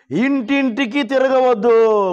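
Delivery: slow, drawn-out preacher's warning; firm warning. Retold or imitated. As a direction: quote it as a firm, deliberate warning. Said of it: "గట్టిగా warning ఇచ్చాడు అయ్యగారు".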